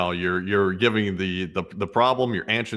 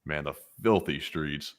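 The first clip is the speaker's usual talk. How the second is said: put-on Philly accent; 6 semitones lower, 6 dB quieter than usual. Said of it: "how to do a Philly accent".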